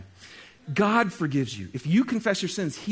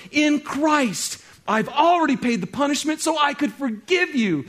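God calling out; 8 semitones higher, 4 dB louder than usual. Acted.

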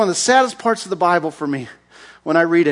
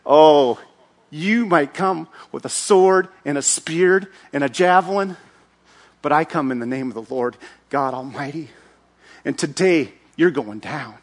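calm defiance; 4 semitones lower than usual. Acted. David answering Goliath calmly.

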